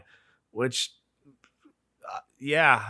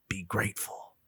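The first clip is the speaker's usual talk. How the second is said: preacher voice; 7 semitones lower, 9 dB quieter than usual. Retold or imitated. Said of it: "a preacher voice".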